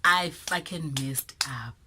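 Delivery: hushed, slow, pleading whisper; whispered apology. Retold or imitated. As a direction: whisper the apology like a guilty kid. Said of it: "I was like".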